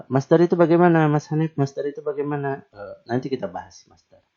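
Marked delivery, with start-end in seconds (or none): 0.1-2.6 eager student asking. Retold or imitated. Voicing a student's question.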